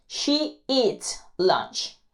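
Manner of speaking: very slow, drawn-out demo; slow English demo line; slow model sentence. Shown as a demonstration. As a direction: stretch every word for the class. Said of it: "le vamos a añadir E S al verbo".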